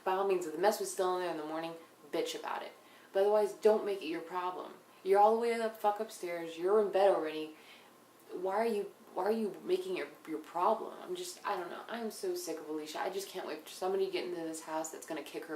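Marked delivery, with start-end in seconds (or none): 3.2-10.1 louder, indignant scolding; heated rant. Real, not acted. Vlogger scolding Alicia for making it her problem, louder. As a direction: tell her off hard.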